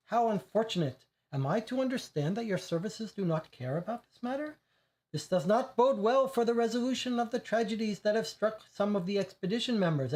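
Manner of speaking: put-on high, haughty aristocrat voice without the accent; disdainful Russian woman. Alexandra mocking the detectives' competence, haughty and high. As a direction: look down your nose at the detectives. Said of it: "her strong Russian accent".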